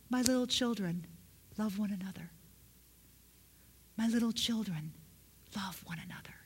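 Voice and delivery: soft, tender words fading away; a hint of a frail old apostle, pausing between phrases; lightly voiced aged John. Old John blessing his church, gently tender. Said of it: "They were short. All he would say is".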